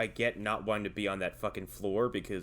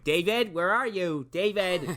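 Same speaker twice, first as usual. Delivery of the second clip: raised, higher voice calling a name into the woods; 6 semitones higher, 3 dB louder than usual. Retold or imitated. Lost in the woods, calling for a missing friend, raised call. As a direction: call out for David, worried.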